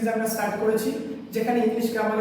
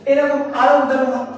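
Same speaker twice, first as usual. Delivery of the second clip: emphatic louder; 2 semitones higher, 6 dB louder, slower than usual. Shown as a demonstration. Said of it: "teacher emphasizing more examples".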